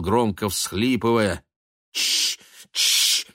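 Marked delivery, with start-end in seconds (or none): 1.9-3.3 sharp unvoiced hushing; urgent shush. A narrator's reading. Daughter hushing her father by the deathbed, sharp shush. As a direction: hiss shh to silence him. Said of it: "крикнула Хелен".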